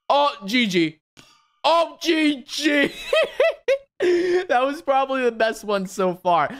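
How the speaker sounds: high slow laughing GG; shocked laughter. Real, not acted. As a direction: laugh through the words. Laughing at own death.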